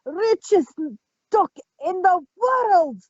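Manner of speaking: mock Scottish accent, lightly done; broad scottish accent. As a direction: ham up a thick Scottish brogue. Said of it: "speak with a thick Scottish accent".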